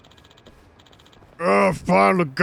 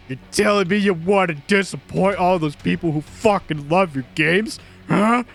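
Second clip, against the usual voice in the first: louder, snarling abuse; raging boss; 3 dB louder than usual. Acted. Producer raging at the developer who quit, snarling. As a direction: tear into him for quitting.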